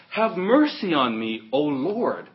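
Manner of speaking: imitated crying out. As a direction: cry out to him in a mildly dramatised plea. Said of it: "And she cried to him".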